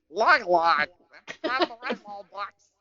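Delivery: high-pitched mock-eager teen; hammed-up fan pleading, breaking into laughter; cringy teenager. Mocking himself at seventeen pushing Red Wall books, cringy high voice. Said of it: "being, like, seventeen and being like".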